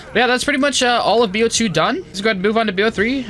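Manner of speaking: high, bright upbeat video host; YouTuber voice. Acted. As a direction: hype it up like a YouTube outro. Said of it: "so fun to do my YouTuber voice again".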